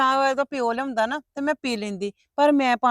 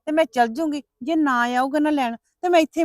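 louder, higher stubborn defiance; raised, defiant daughter; defiant outburst; 3 semitones higher, 4 dB louder than usual. Acted. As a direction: dig in and refuse.

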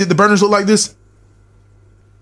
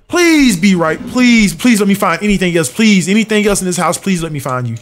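pleading. Real, not acted. Begging to find another anomaly.

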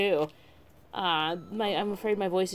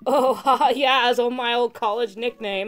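loud laughing surfer bro; surfer dude laughing; 5 semitones higher, 5 dB louder than usual. Acted. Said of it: "the surfer dude voice".

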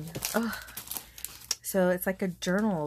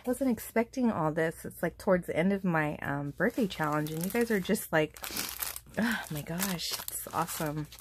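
ordinary talk

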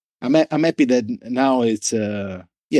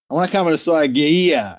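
higher-pitched joking imitation, mangling Gaia; mock a friend getting Gaia wrong; Uncle Paulie; 6 semitones higher than usual. Founder imitating his friend's joke about the brand, teasing mispronunciation. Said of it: "when people misspell your brand".

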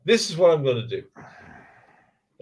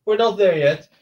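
loud, high no no no no; loud protest; 5 semitones higher, 7 dB louder than usual. Real, not acted. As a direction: protest loudly. Friend teasing, loud protest.

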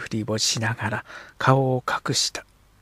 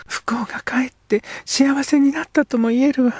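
put-on girl's whisper; 13 semitones higher, 3 dB louder than usual. Girl character speaks.

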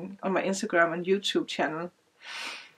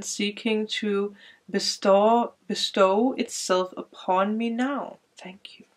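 prayer invocation. Acted.

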